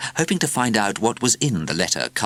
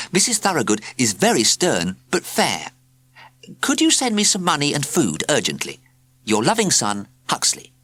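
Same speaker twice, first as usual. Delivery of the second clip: put-on child writing home; 8 semitones higher than usual. A narrator's reading. Huxley's letter read in his voice.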